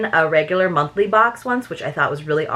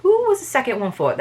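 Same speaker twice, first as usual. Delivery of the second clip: badly faked French accent, higher pitched; failed French accent; 5 semitones higher than usual. Reader retrying the detective's question, failed French accent. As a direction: try a French accent and miss. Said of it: "I can't do a French accent".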